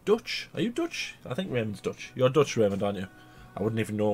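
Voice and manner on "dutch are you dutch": mock surprise. Teasing a friend.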